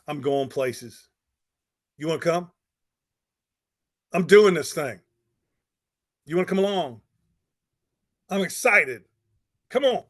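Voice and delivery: building from easy to bright and loud; eager invitation. Retold or imitated. Preacher voicing a go-getter inviting others along, eager. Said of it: "I want somebody that says".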